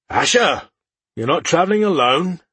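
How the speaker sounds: surprised, rising question; stunned disbelief. Acted. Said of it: "asked with disbelief in his tone".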